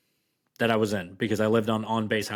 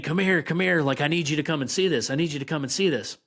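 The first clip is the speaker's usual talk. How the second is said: pitched up, hurried urging; urgent calling; 4 semitones higher, faster than usual. Retold or imitated. Wife urgently calling husband to come see, pitched-up excited. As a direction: call him down fast, excited.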